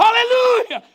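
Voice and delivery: high, loud hallelujah cry; crowd shout. Retold or imitated. O povo gritando em resposta. (aleluia gritado bem alto)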